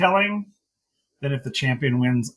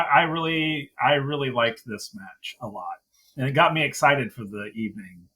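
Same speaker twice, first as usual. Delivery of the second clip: ordinary talk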